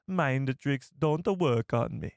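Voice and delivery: slow, half-hearted Jamaican-ish lilt; understated Jamaican-like accent; Watto's accent. Shown as a demonstration. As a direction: imitate the clip's lilt. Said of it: "It's almost like a Jamaican accent".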